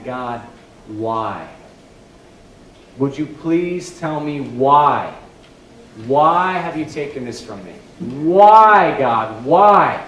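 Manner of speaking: slow pleading that bursts into loud cries; sincere anguished prayer. Acted. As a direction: beg God for a reason, breaking out. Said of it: "prays out sincerely to God".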